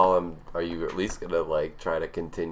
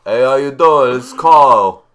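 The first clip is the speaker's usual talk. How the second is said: put-on loud, higher-pitched Brooklyn accent; heavy Brooklyn accent; 5 semitones higher, 15 dB louder, slower than usual. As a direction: belt it out like a Brooklyn guy. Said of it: "Carl with a heavy, like, Brooklyn".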